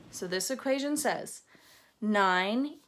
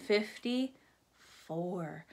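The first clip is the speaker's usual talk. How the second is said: drawn-out finish; 4 semitones lower, much slower than usual. Acted. Slow final number.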